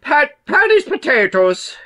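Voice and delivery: a horrible mock Irish accent; lightly put-on Irish accent for a joke; bad Irish accent. Joking about Irish potatoes in a bad Irish accent. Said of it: "That was a horrible Irish accent".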